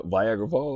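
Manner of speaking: "Viagra" in place of Niagara, slow and straight-faced; deliberate mispronunciation. Real, not acted. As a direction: repeat "Viagra" slowly as if correct. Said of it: "I purposely say it".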